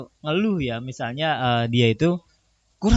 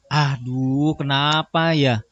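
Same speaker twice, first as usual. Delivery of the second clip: slow, drawn-out pretend grumble; mock humblebrag complaint; slower than usual. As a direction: complain slowly so the bragging slips through. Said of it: "Ngeluh nih, tapi pamer gitu". (pura-pura ngeluh padahal pamer, pelan)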